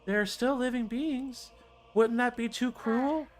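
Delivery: high, eager elder voice; elder character voice. Acted. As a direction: press hard to see the report.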